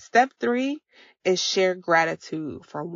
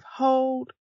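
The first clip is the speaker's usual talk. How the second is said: put-on higher, sing-song cue to the kids; breathing cue to kids; 7 semitones higher than usual. Mom cueing her kids to inhale, sing-song. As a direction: call out the breath like a game.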